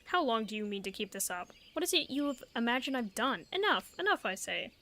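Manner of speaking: a hint of a defensive soldier pleading his case; lightly voiced accused soldier. Streamer voicing a cornered soldier to his accuser, lightly voiced. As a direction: read it as the cornered guard, only lightly voiced. Reading the NPC's lines aloud.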